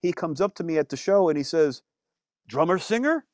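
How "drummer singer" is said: put-on French Canadian accent. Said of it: "I'm not doing a good French accent".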